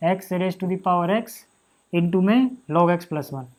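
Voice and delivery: slow, spelled-out dictation pace; slow board dictation. Shown as a demonstration. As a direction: dictate each term slowly while writing. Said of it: "teacher dictating slowly".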